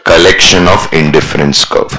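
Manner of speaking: slow recital. Shown as a demonstration. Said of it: "it is nothing but what?".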